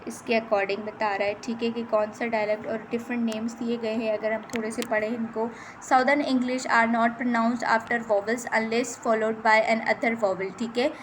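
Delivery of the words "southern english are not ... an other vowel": slow, careful reading of English definitions; reading from slide. Shown as a demonstration. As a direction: read each word out slowly, like dictation. Reads slide text aloud. (धीरे-धीरे slide से पढ़ना)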